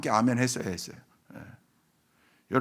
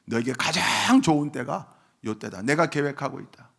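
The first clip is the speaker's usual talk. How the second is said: ordinary talk, nothing marked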